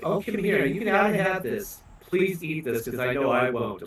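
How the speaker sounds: a hint of a pleading in-law; mother-in-law. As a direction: gently press food on a guest. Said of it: "She's like".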